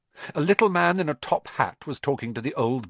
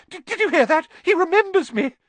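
squealing with joy, very high and loud; Daedalus Diggle; 8 dB louder than usual. A narrator's reading. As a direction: announce it to the whole room, giddy. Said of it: "cried Daedalus Diggle, looking around".

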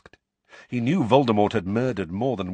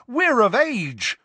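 loud, high, slow bellow; 7 dB louder, slower than usual. A narrator's reading. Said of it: "Fred and George bellowed together".

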